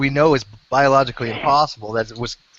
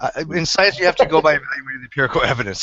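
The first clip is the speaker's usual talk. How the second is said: talking with mouth full; words round a bite of food. Real, not acted. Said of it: "Sorry, I'm eating it".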